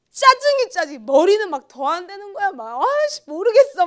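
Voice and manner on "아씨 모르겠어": much higher, louder exasperation; mock-exasperated cry over her hair; frustrated outburst. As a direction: blurt it out in exasperation. Retells frustration over makeup.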